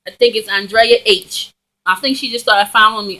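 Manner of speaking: talking while chewing gum. Real, not acted. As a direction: gum in the mouth. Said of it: "I'm sorry, I'm chewing gum".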